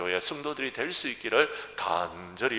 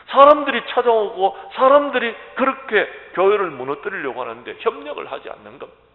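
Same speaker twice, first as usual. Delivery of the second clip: high, loud, driving sermon delivery; full-force preaching; 9 semitones higher, 12 dB louder than usual. Real, not acted. Pastor urging the congregation to unite against attack, forceful preaching.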